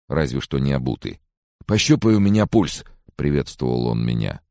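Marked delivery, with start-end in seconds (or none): 1.7-2.8 high-pitched, needy request; anxious demand. A narrator's reading. Sick man greets friend wanting pulse checked, anxious. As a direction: ask urgently, fearing the worst.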